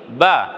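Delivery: বা with a long drawn-out aa vowel; long baa. Shown as a demonstration. Teacher modelling for viewers, বা with long aa. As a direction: stretch the aa in বা to two beats. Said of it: "এটার সংক্ষেপ হলো কি?".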